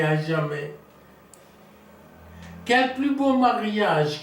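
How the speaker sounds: lightly declaimed lover's plea; theatrical monologue. Acted. Lover confiding in Pral about a marriage denied, theatrical recitation. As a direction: declaim it phrase by phrase, with measured pauses.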